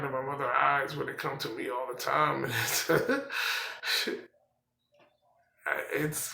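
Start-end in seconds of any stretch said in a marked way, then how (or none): 2.5-4.2 brief breathy chuckle; laugh. Real, not acted. Man recalling his mother's eyes, brief chuckle. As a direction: let out a small wry laugh.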